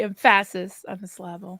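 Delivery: "emphasis" as em-FASS-is, "syllable" as sil-LAB-le; joke mispronunciation. Acted. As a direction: hit the wrong middle syllable in "emphasis" and "syllable". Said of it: "as a joke".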